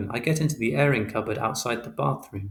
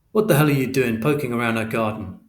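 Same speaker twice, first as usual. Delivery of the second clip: louder, hard scolding from the father; angry telling-off; 5 dB louder than usual. Acted. Father scolding his son over the garden, angry. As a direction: snap it at him like a fed-up dad.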